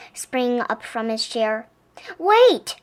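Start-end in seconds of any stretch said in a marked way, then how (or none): 2.2-2.8 higher urgent call; sudden pleading cry. A narrator's reading. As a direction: call him back before he leaves. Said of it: "cried Bear".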